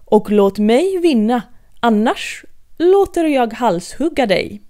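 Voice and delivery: a spoilt queen's threat; threatening queen. Acted.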